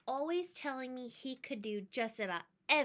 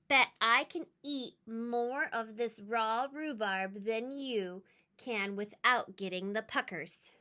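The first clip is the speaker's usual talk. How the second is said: challenging. Acted. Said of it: "I challenged".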